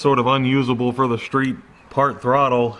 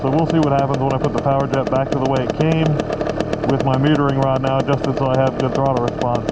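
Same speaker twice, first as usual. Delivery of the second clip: raised voice over engine noise; shouting over engine. Real, not acted. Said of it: "Hopefully you can hear me over the engine".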